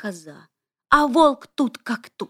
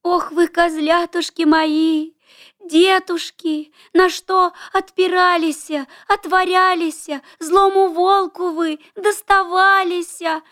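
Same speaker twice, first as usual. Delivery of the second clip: higher, keening mother's lament; wailing lament; 6 semitones higher than usual. A narrator's reading. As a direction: wail over her lost kids. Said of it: "начала громко-громко причитывать".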